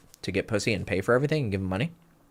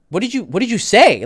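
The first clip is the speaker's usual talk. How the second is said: amazed friend; 11 semitones higher, 7 dB louder than usual. Retold or imitated. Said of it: "he was like".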